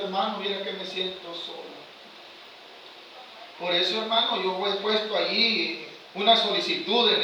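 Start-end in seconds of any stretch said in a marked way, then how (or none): 0.0-1.6 mock lonely whine. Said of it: "deje de estar diciendo".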